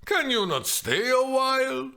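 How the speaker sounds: annoyed exclamation. Acted. The nurse snapping at impatient Juliet, loud. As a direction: scold the hasty girl.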